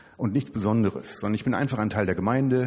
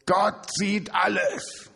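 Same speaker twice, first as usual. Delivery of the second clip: very high, slow squawky parrot call; drawn-out parrot warning; 10 semitones higher, much slower than usual. Acted. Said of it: "der Papagei sagt so".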